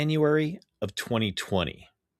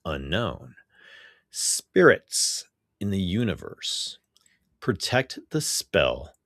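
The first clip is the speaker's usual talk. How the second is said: poetry reading; 3 semitones lower than usual. Real, not acted. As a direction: recite it line by line with weighted pauses. Get into reading this week's poem.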